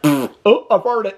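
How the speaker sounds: high, hammed-up little fart excuse; lightly voiced Amy, faking surprise; mock Amy fart line. Mocking Amy at dinner, lightly hammed-up high voice. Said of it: "'cause Amy's like".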